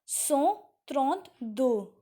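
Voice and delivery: "cent trente-deux" slowly, word by word; slow, separated words in "cent trente-deux"; French pronunciation demo. Shown as a demonstration. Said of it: "you will speak".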